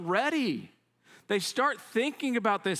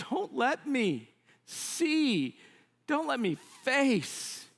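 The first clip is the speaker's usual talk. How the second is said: higher, anguished begging; desperate plea; 7 semitones higher than usual. Acted. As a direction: plead for it to end, drawing it out. Moses despairing, pleading with God.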